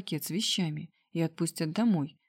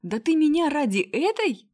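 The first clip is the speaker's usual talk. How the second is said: much higher and louder, outraged; shrill squeal; 8 semitones higher, 5 dB louder than usual. A narrator's reading. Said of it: "верещала она". (визгливый возмущённый крик)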